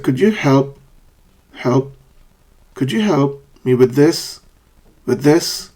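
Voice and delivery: broken-down demo, "help" falling, "this" rising; fall-rise intonation. Shown as a demonstration. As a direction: drop on "help", lift on "with this". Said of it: "Fall, rise".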